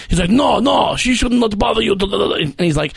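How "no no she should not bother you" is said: mock stern shout. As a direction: bark it like a bouncer laying down the law. Bouncer scolding the dancer.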